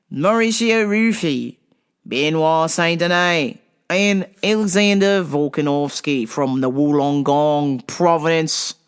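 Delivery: hammed-up Australian accent. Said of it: "with my Australian accent".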